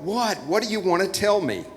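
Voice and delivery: what jumped up high in disbelief; sudden incredulous what; baffled what. Acted. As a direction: snap up into a startled what.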